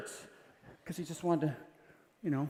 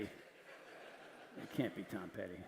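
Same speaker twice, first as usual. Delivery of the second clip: roommate laughing; 10 semitones lower, 17 dB quieter, much slower than usual. Retold or imitated. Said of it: "Bob would go".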